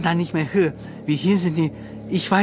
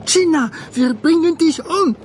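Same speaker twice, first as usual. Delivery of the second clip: higher, louder imitation of the crowd's threat; retold mob yell, raised pitch; mock mob threat; 9 semitones higher, 3 dB louder than usual. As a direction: throw the threat like the attackers.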